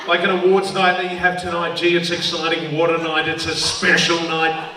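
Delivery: mock-excited sports commentator; light impression of a thrilled commentator; Bruce McAvaney. Comic mimics commentator on awards night, mock-excited. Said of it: "Bruce McAvaney, I just love hearing him get excited".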